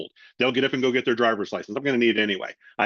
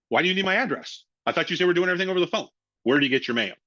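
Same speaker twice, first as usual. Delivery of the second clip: skeptical customer; 6 semitones higher, faster than usual. Retold or imitated. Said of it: "And they're like".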